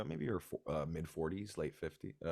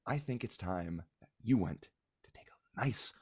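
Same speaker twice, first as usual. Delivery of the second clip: stern mother. Acted. Mother hushes the child.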